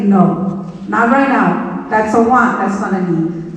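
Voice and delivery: mild stern mom refusing, understated; stern parent. Shown as a demonstration. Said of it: "you have to be stern and say".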